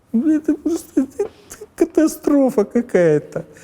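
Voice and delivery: very high, plaintive, pleading lament. Describing a man he listened to after Davos: plaintive. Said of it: "(жалобно)".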